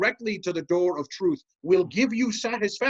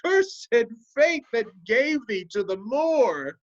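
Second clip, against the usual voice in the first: higher, hammed-up cry on Cursed; mock anguished cry; 4 semitones higher than usual. Ensign imitates the dreamer, crying out against fate. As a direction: lightly voice the lover's lament. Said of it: "and then cried".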